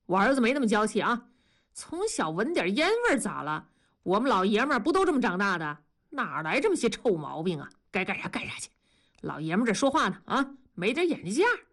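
brusque husband telling his wife off; a mild, lecturing scold. Acted. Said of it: "大庄训斥道". (略带粗鲁地训斥)

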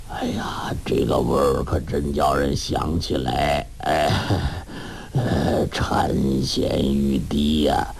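put-on slow, whispery, low old man; weak old master reminiscing. A narrator's reading. 洪七公回忆御厨名菜，虚弱低语. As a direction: savor the memory, drooling. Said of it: "洪七公说".

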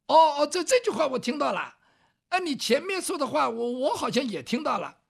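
put-on southern-accented scholar. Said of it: "说话带点南方味儿".

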